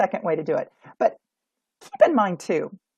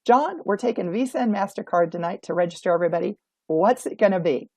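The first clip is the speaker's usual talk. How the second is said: confident greeter. Shown as a demonstration. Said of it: "They're gonna say".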